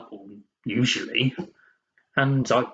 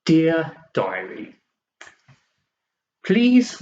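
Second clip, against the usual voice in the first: slow, raised diary salutation; emphatic restart; 6 semitones higher, 4 dB louder, slower than usual. Acted. Diarist starts over after a tangent, emphatic restart. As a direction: start the entry afresh, higher and drawn out.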